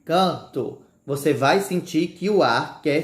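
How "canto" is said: canto said with the nasal vowel held, nose pinched. Shown as a demonstration. Teacher pinching nose to show the nasal canto. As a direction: pinch the nose and say canto, feel the air push. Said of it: "Se você tampar o nariz, ó".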